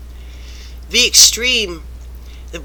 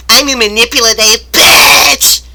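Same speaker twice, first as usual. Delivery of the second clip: mock boss gloat; 5 semitones higher, 10 dB louder than usual. Mocking boss's voice.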